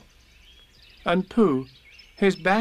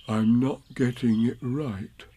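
slow bear voice, musing; talking to himself; slower than usual. Acted. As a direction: puzzle slowly to yourself as a bear. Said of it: "said to himself".

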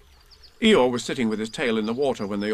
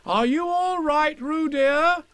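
higher, louder slow worried call; anxious Kanga; 5 dB louder, much slower than usual. Acted. Mother Kanga calling to Roo, anxious. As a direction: call out anxiously to your baby. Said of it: "called Kanga anxiously".

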